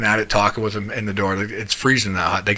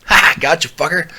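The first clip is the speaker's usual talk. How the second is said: higher, louder mock gloat; 7 semitones higher, 5 dB louder than usual. Fishing buddy to his victim, gloating. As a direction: crow it like a prankster who just got him. Retelling buddy's gleeful prank.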